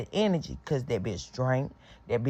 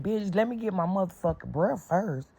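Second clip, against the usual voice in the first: annoyed retort; 6 semitones higher than usual. Retold or imitated. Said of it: "I'm like".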